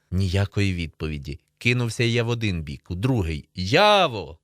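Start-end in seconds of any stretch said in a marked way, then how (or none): 3.5-4.4 open, louder call. A narrator's reading. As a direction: call a friend out loud. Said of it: "кричу я вголос".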